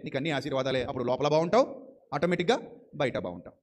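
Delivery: lightly voiced Lord explaining to his child; gentle fatherly Lord. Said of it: "ప్రభు అంటున్నాడు". (కొంచెం తక్కువ స్వరంలో ప్రేమగల తండ్రిలా)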